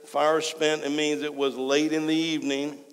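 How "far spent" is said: "far" singled out with emphasis; "far" held a little before "spent"; stress on far. Shown as a demonstration. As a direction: give the word "far" extra weight. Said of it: "I wanna emphasize the word far".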